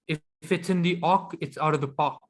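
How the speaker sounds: a weak attempt at a South African accent. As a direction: say it like a South African, but only half managing. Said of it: "sorry, I can't do that accent".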